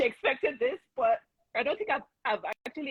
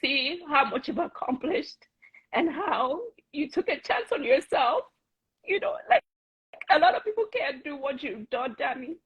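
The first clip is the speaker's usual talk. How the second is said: getting emotional; 3 semitones higher than usual. Real, not acted. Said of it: "I don't know why I'm getting emotional".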